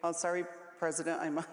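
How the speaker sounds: quick, laughing fake excuse to the President; mock phone brush-off. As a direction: rattle it off fast, half laughing, like dodging a call. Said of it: "what does everyone say?".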